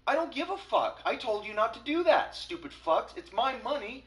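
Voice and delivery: retold angry yell. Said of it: "And I was like".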